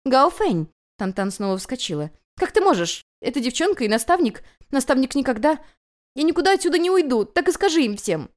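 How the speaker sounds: high, loud indignant outburst; outraged yell. A narrator's reading. Tantan yells at Gaofen over the guest's demand. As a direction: explode in jealous fury.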